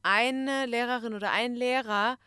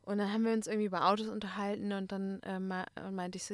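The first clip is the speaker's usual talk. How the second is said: ordinary talk, nothing marked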